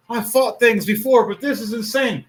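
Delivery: high, stunned disbelief; amazed new guy. Acted. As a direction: gasp at the size of the monster. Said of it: "he's sitting there in this amazement, going".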